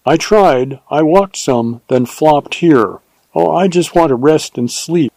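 a hint of the rescued heroine, worn out; lightly voiced weary heroine.

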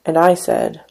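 measured, unhurried poetry reading; poem reading. Acted. Poet reading his poem to an audience, measured. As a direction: read each line as a spoken poem.

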